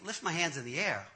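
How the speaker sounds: low, soft, doubtful repeat; puzzled inner echo. Retold or imitated. Reluctant man to himself before prayer, quietly puzzled. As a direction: think it aloud in disbelief.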